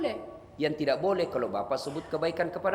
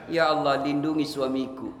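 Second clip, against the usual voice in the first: mock wife prayer; 3 semitones lower, 4 dB louder than usual. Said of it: "Ibu-ibu ini paling sering".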